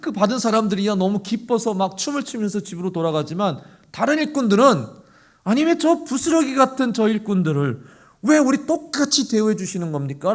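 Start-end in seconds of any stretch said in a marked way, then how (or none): 5.4-10.3 complaining workers. Retold or imitated. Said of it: "라고 엄청 막 불평을 했어요".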